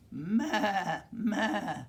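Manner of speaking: high, loud drawn-out "maa"; goat bleating. A narrator's reading. Reader to children as the goat, high bleating. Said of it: "said the goat".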